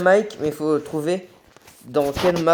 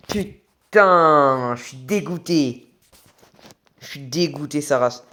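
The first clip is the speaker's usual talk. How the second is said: bitter disappointment after a loss; raging gamer; slower than usual. Real, not acted. Loses fight, dismayed. (il se fait tuer, dégoûté et rageur)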